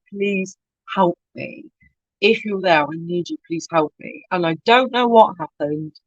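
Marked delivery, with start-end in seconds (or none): 0.1-4.2 desperate prayer. Retold or imitated. Praying in church for help, soft and pleading. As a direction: beg quietly, close to tears.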